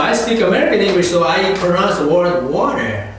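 teacher demonstrating American English; American pronunciation with an r-coloured water; American accent. Shown as a demonstration. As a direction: model an American speaker for the class. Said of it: "나는 미국식 영어를 합니다".

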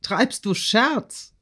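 loud start, then high, slow disbelief; aghast old count; shocked cry. A narrator's reading. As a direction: burst out, then stretch the incredulous question. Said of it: "rief der Graf".

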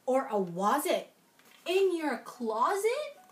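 put-on lilting read-aloud rhyme for kids; sing-song children's story voice; storybook reading. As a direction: read it like a bedtime picture book. Reading Seuss verse to children.

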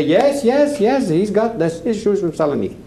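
high, emphatic chorus of backing; insistent agreement, pitched well up at first; retold eager agreement. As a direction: chime in like a group of witnesses. Group of witnesses backs him up.

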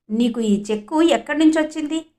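firm demand. Acted. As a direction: press the boy a little harder, not a full shout. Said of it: "అని గట్టిగా నిలదీశారు". (కొంచెం గట్టిగా నిలదీయడం)

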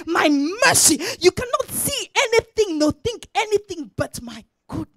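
loud, insistent preacher speaking as God; full-force preaching. Acted. Preacher voices God promising to flood minds, full-force preaching. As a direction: drive each phrase home loudly.

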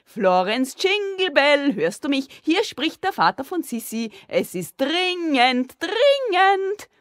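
high, loud, drawn-out hollering; bellowing. A narrator's reading. Father bellows into the toilet bowl, urgent hollering. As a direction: holler each word down the pipe. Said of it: "der Vater brüllte in die Muschel".

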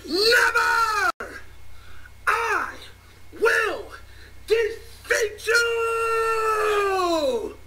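anime hero yell. Acted. Anime hero cries out in battle.

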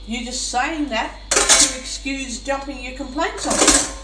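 ordinary delivery

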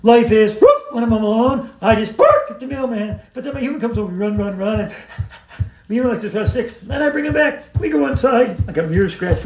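a hint of a playful dog voice; lightly voiced dog poem; reciting as a dog. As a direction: recite it like a happy pup. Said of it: "recite a poem I wrote called Fetch".

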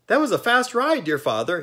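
very high, loud, delighted Jack voice; excited exclamation. A narrator's reading. Jack exclaiming to his absent father, high and excited. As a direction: burst out thrilled after the ride. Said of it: "he exclaimed".

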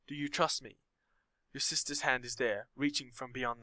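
soft, lonely woman's plea; a hint of a sad lonely woman. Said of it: "the voice of a woman, sad and lonely".

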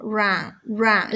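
"run" said as "rahn", R untrilled; English R in "run". Shown as a demonstration. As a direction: model "run" with an open vowel, falling. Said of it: "La R no se pronuncia".

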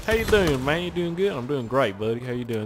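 imitated friendly Texan accent; friendly Southern accent. Player imitating friendly Texans chatting, Southern accent. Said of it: "it's such a nice accent".

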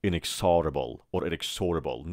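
"inexorable" two wrong ways, "in-ek-SAR-a-bol" or "in-ek-SOR-a-bol"; wrong pronunciations. Shown as a demonstration. Teacher showing what never to say, mispronounced "inexorable". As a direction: move the weight of "inexorable" onto a full SAR, then SOR. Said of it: "به هیچ وجه ممکن نمیگید".

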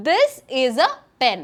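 each word slow and distinct; slow model sentence. Shown as a demonstration. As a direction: say it slowly for learners to copy. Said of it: "ഇതെങ്ങനെ ഞാൻ ഇംഗ്ലീഷിൽ പറയാ?".

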